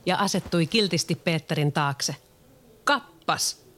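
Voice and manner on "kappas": higher, gleeful exclamation; delighted. Acted. Peter sees his shadow sewn on, gleeful higher voice. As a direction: crow with delight. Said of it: "Peter riemastui".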